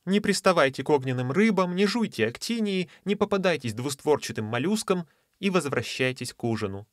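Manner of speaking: high motherly warnings; a hint of a fussing mother; motherly sea lady. Lady warns dogs like children.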